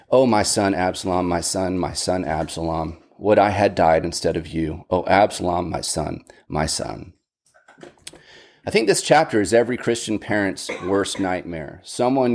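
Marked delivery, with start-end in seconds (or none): 0.1-7.1 a father mourning his dead son, voice sinking; weeping lament. Retold or imitated. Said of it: "and wept".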